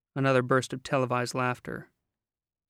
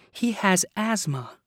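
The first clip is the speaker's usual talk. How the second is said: sweet high explaining; 7 semitones higher, slower than usual. A narrator's reading. Bridger explains, high and slow.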